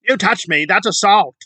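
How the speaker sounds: shrieking mock threat to call the cops; mocking accusation. Mocking the protester threatening a passerby, shrill put-on voice. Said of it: "she says".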